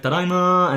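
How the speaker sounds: "tadaima" drawn out like an anime character; anime-style tadaima. Retold or imitated. Teacher imitating anime, a drawn-out "tadaima". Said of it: "make it really long and stuff".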